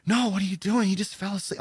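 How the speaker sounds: mock wifely protest, trailing into softness. Imitating wife's protest when woken.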